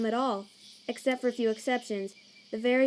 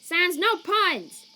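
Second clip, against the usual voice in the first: loud, high, drawn-out protest; scandalised outcry over a bad joke; exasperated scolding; 6 semitones higher, 5 dB louder, much slower than usual. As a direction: wail it at your brother, high and stretched. Brother scolds a pun loudly.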